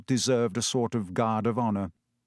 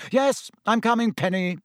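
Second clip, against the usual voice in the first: high, loud eager call; eager Percy voice; 9 semitones higher, 3 dB louder than usual. A narrator's reading. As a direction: hurry off calling sweetly. Percy calls to girlfriend.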